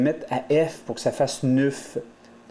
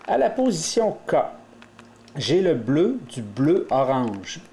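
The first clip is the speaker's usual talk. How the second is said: slow, carefully spaced naming; slow and deliberate. Shown as a demonstration. Teacher naming the piece slowly for learners, slow and deliberate. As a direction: lay out each colour slowly. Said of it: "teacher naming cube piece".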